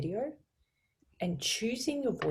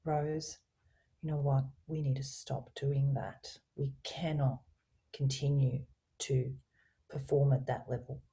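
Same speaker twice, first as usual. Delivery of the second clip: low voice. Shown as a demonstration. Coach demonstrating firm feedback to colleague, low calm voice. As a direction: lay it down low and definite, with empathy. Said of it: "So I'm using a low voice".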